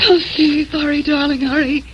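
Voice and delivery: a touch of tears, urging him on; tearful urging. Acted. Adrian over wounded Steve.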